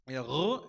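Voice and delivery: "R" sounded deep in the throat; "R" as a drawn-out guttural sound. Shown as a demonstration. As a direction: demonstrate the throaty "R". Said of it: "esta R es gutural".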